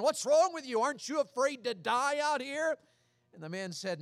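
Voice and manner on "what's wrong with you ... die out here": panicked. Retold or imitated. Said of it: "the first man said to the second man".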